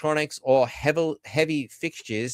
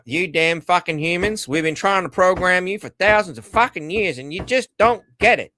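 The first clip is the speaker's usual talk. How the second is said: raised, high-pitched exasperated tirade; exasperated scolding; 5 semitones higher, 4 dB louder than usual. Acted. Master berating humans he tried to program, exasperated. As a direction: scold with rising pitch and volume.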